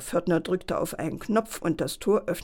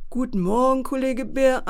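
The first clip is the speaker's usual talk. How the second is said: freundlich; 6 semitones higher, 4 dB louder than usual. Acted. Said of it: "antwortete die Telefonstimme freundlich".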